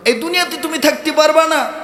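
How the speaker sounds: high, insistent preaching tone. Acted. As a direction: raise the pitch and drive the warning home.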